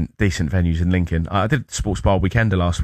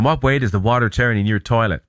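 put-on a light stab at an Aussie accent; half-hearted Bart Simpson prank call in Australian; lightly put-on Australian twang; 3 semitones higher than usual. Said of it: "Don't know why it's do the accent".

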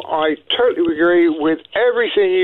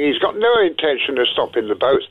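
usual speaking voice

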